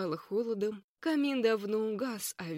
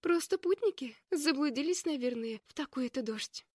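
reassuring; 5 semitones higher than usual. Acted. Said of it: "попыталась она успокоить сестёр".

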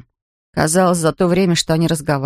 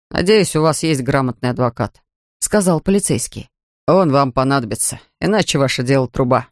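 a hint of a lower, sober officer voice; lightly voiced policeman; 5 semitones lower than usual. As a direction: read the policeman slightly lower and matter-of-fact. (слегка пониженный голос полицейского)

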